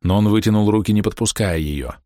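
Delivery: ordinary delivery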